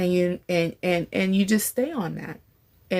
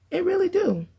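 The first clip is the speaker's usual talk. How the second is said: emphatic agreement; 11 semitones higher than usual. Real, not acted. Emphatic affirming of own point.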